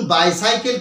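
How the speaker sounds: বাইসাইকেল with "বাই" put before সাইকেল; correct full word. Shown as a demonstration. Teacher gives students the full word, clearly pronounced বাইসাইকেল. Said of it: "একে কি বলতে হবে".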